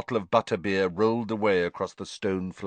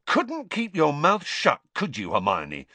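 put-on angry boy; 6 semitones higher than usual. A narrator's reading. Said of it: "said Ron angrily".

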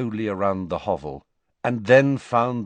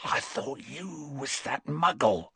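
whispered; 3 semitones higher, 6 dB quieter than usual. Acted. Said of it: "whispered Morphin".

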